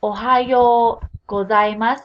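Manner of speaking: "Ohayo gozaimasu" with a long drawn "yo", slow and clear; elongated yo. Shown as a demonstration. Teacher models for students, slow with long "yo". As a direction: stretch the "yo" of "Ohayo" out. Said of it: "Remember to elongate that".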